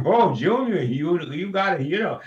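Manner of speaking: a chuckling Charlie Ruggles impression squeezed into a fast read. Shown as a demonstration. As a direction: chuckle your way into it like a fond old uncle. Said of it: "had to do it and sound like Charlie Ruggles".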